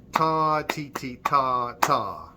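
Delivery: even ta and ti beats; teacher showing a straight rhythm. Shown as a demonstration. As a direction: chant a straight, even beat. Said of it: "For example".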